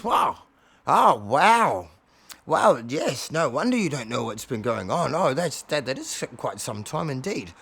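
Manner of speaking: marvelling cat elder; Bob. Acted. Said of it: "Bob says".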